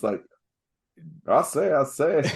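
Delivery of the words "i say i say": higher, mock Southern bluster; hammed-up Southern catchphrase voice; Foghorn Leghorn. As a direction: do a cartoon Southern blowhard. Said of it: "all I thought about was Foghorn Leghorn".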